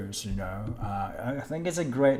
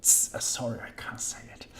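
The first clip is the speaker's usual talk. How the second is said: near-whispered, giving up on the word; murmured apology; 5 dB quieter than usual. Real, not acted. Streamer stumped by a viewer's name, whispered apology. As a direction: drop to a voiceless apology under your breath.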